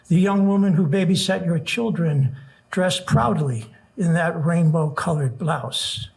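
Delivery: earnest rhythmic poem recital; nervous open mic poet. Acted. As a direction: build the refrain with urgency. Reads protest poem aloud.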